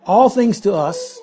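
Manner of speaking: "all things to us" set apart, led by a firm all; emphatic. Shown as a demonstration. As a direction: hit all, falling through "to us". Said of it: "it has the highest emphasis".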